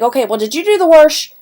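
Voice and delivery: WASH said as "warsh", with an R; regional R in wash. Retold or imitated. Roommate or relative asks about laundry, WASH pronounced "warsh". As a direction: put an R into WASH, making it "warsh". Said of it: "She puts an R in it".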